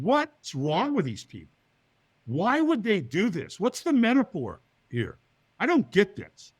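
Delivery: slow, emphatic questions climbing in pitch; bewildered. Retold or imitated. Onlooker watches firewalkers and wonders why, bewildered. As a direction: stress each question in baffled disbelief.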